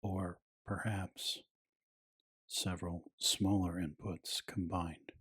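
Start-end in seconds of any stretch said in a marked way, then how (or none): 0.0-3.0 hushed voice. Acted. Aside in narrated explainer.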